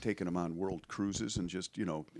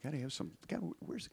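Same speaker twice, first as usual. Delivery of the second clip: exasperated tourist; 9 semitones higher than usual. Retold or imitated. Comic pressing locals about reggae.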